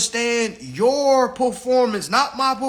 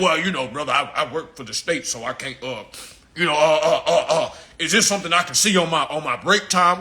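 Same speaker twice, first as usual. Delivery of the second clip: hesitant client; 7 semitones lower than usual. Retold or imitated. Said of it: "You know what I'm saying?".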